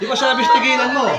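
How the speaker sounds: loud, forceful rebuke; stern scolding. Real, not acted. Healer orders the spirit to stop, stern scolding.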